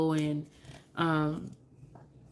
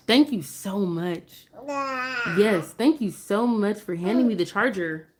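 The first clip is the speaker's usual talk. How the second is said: slow thank you; 3 semitones higher than usual. Real, not acted. Mom thanking her baby slowly for the charger. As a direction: praise him slowly and warmly.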